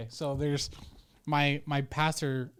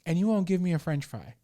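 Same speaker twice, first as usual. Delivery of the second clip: raised, emphatic mock tirade; indignant dad; 4 semitones higher, 5 dB louder than usual. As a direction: plead the father's case with hammed-up outrage. Acts father's indignant tirade at daughter.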